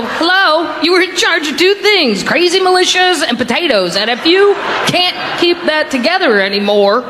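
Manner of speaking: hammed-up call telling Idaho off; mock phone scolding. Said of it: "They go".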